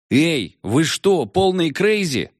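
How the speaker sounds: high, slow, incredulous cry; alarmed outburst. Acted. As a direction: cry out that they're crazy.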